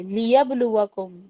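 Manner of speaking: slow melodic tajweed chant; measured Quranic recitation. Shown as a demonstration. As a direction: recite it slowly, stretching the vowels. Recites the word.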